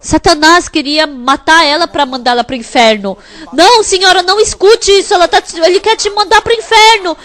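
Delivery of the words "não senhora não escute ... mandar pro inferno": urgent warning. Retold or imitated. Pastor warning the woman.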